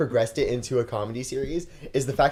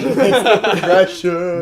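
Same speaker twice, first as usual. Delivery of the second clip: laughing; 5 semitones higher, 8 dB louder, much slower than usual. Pretend. Echoing mock line, laughing.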